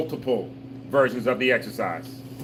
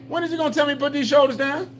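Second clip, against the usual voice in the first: quick, much higher, whiny wondering; impatient student's inner voice; 11 semitones higher, faster than usual. Pretend. Instructor voicing a senior's impatient thought to the class. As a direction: play the tired student itching to drop their shoulders. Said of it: "you should be thinking".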